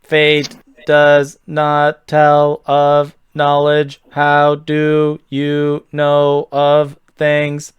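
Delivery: slow, even robotic guardian. Acted. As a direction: drag each word out like a machine. Robot-voiced guardian questions.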